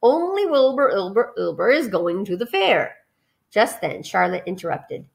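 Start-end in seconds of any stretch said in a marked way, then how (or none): 0.0-2.9 a goose that repeats its word endings, stuttering echo; lightly voiced stern goose; scolding goose. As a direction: scold the goslings like a fussy goose.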